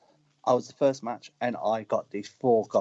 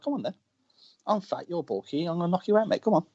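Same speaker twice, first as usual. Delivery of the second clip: raised-pitch cocky challenge, half acted; retold challenge; 6 semitones higher than usual. Wrestler squaring up to a big heckler, retold cocky challenge. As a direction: goad him into a fight.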